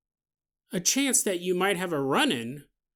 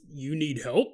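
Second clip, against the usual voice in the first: Bigfoot; 4 semitones lower, 4 dB quieter than usual. Acted. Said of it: "he walks up to you and he goes".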